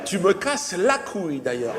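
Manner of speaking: slow, otherworldly, laughing; a hammed-up annoyed alien; mock angry alien. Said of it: "Il s'est énervé".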